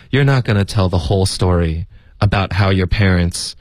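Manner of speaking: sluggish monotone, no stressed words; listless and unemphatic; no expression. Acted. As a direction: drone it out, too full to bother. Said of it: "没有什么语气，没有重音什么的".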